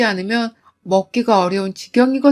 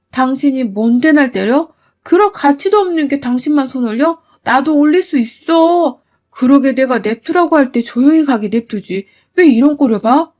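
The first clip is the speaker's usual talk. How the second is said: angry retort; 3 dB louder than usual. Acted. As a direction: hit back word for word. Wife fighting back. (시어머니에게 맞서 크게 따지듯)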